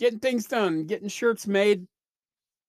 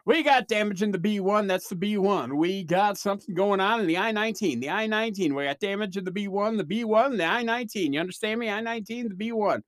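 lightly imitated doctor, rattling off codes like a bingo caller; a hint of an auctioneer calling disc numbers; mild mock bingo-auctioneer patter; 2 semitones higher than usual. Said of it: "sounded like a bingo caller and an auctioneer had a baby".

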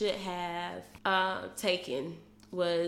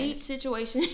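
put-on teenage boy voice; 5 semitones higher than usual. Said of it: "she sound like a little teenage boy".

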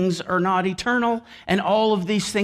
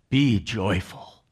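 mock cheerful quote; 11 semitones lower, 4 dB quieter, slower than usual. Mock cheery Paul in comfort.

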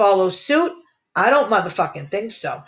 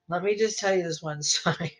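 laughing; 7 dB quieter than usual. Real, not acted. Host about to tell a bar story, laughing. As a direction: giggle before the story.

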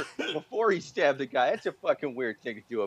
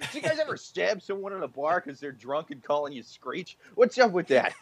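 stand-up comic bit. Pretend. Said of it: "it was like".

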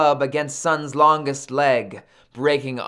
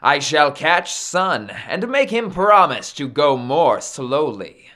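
louder, confident boast; boastful; 4 dB louder than usual. Acted. Maui vows to catch Sun, boastful. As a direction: declare the plan like a braggart. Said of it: "Maui boasted".

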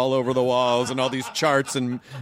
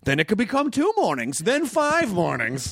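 mock warning; 7 semitones higher than usual. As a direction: build a mock-dire slippery slope, stretching the last steps. Acts out slippery slope warning.

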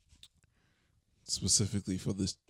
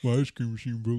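fast food cashier. Pretend. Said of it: "do an impression of somebody working at a, a fast food restaurant".

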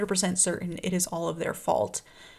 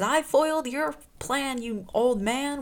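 higher, slower, defiant retort; snapping back; 6 semitones higher, slower than usual. Retold or imitated. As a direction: fling his words back at him. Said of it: "snaps back at him".

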